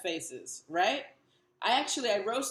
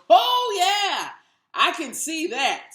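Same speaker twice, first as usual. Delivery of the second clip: condescending onlooker; 6 semitones higher, 11 dB louder, slower than usual. Retold or imitated. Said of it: "and they go".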